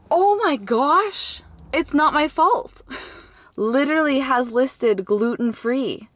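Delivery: high, loud, drawn-out gasp of realization; astonished vindication. Real, not acted. Discovering the label says gluten-free, astonished vindication. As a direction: exclaim it slowly, stunned and vindicated.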